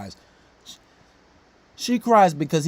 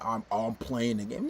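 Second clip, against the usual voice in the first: mocking quote; 9 semitones lower, 6 dB quieter, slower than usual. Mocking the caught boyfriend.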